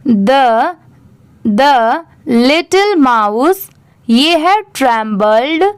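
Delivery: very slow, word-by-word reading to learners; slow classroom reading of a story; slow read-aloud. Acted. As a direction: read each phrase slowly for students to follow. Reads the English paragraph aloud.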